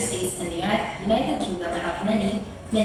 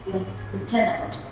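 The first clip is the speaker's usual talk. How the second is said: British "lieutenant" said as lef-TEN-ant; British accent; much slower than usual. Shown as a demonstration. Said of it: "Another set of examples are".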